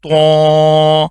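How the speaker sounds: طا said thick and heavy; heavy letter. Shown as a demonstration. Teacher showing pupils the heavy sound of طا. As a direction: make the t of طا full and heavy. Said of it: "یہ بھی موٹا کر کے".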